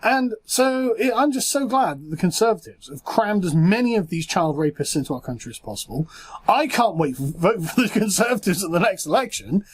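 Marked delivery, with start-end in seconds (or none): 1.1-9.6 sarcastic. Real, not acted. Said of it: "can't say that with a straight face".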